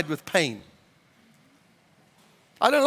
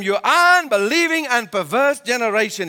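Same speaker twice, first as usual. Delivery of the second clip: acted stern rebuke, pitched up; irritated rebuke; 4 semitones higher, 4 dB louder than usual. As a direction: scold them in mock exasperation, leaning on the words. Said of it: "these are strong words".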